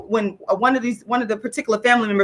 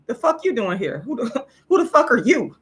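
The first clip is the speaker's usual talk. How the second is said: incredulous attitude. Retold or imitated. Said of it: "That was my attitude".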